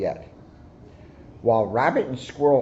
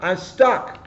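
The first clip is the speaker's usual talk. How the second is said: high, pained little voice; stuck squirrel; 7 semitones higher, 4 dB louder than usual. A narrator's reading. Squirrel caught in thorns, whining high. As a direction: whine from the thorn bush. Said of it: "he cried".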